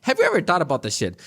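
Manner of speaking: ordinary delivery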